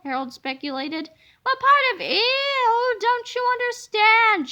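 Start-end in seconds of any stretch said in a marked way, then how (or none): 1.4-4.5 high, slow, louder outburst; slow, loud annoyed shout; exasperated shout. A narrator's reading. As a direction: spell it out in exasperation. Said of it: "shouted George".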